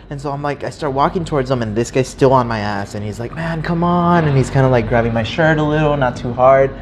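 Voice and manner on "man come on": pleading beggar. Retold or imitated. Beggar still pleading, grabbing shirt.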